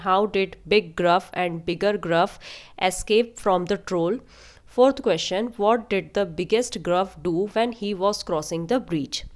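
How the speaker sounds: slow, word-by-word English reading; careful question read-aloud. A narrator's reading. Teacher reads passage questions to students, slow and careful. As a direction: read each question out slowly for learners.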